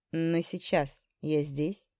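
slow, soft and hoarse. Acted. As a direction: rasp it out quietly, slowly. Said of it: "сказал он хриплым голосом".

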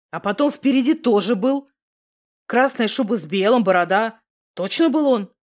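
a hint of a spooked guy swearing it's true; Misha. A narrator's reading. Misha voiced low by narrator.

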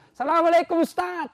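loud, high greeting across the market; calling out a greeting. Retold or imitated. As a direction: hail the preacher from afar. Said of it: "sudah teriak".

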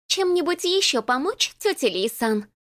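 put-on high, honeyed, fawning girl; unctuous sweet voice. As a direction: sweeten it like syrup. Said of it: "елейный голосок".

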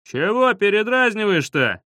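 high-pitched, indignant snap; annoyed boy shouting back; cross retort. A narrator's reading. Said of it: "рассердился он".

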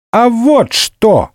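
high, slow gleeful cry; joyful shout. Acted. The boy triumphantly answering the cardinal, gleeful cry. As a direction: shout it out with glee. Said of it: "радостно выкрикнула деточка".

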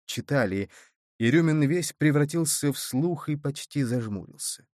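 usual speaking voice

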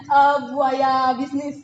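loud, high laughing protest; laughing denial. Real, not acted. Teased by a colleague, denies it laughing loudly. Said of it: "yang betina di sini".

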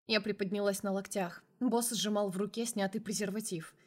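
usual speaking voice

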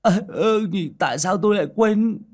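high, loud comic dismay; dumbfounded realization. A narrator's reading. Tiểu Minh remembers the powder in his bag, high dumbfounded cry. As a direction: squeal as if it just dawned on you.

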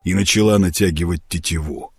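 ordinary delivery, nothing marked

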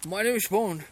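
put-on Sean Connery Scottish accent. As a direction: Bond intro as Sean Connery. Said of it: "volta pro Sean Connery, que é escocês". (sotaque escocês do Sean Connery)

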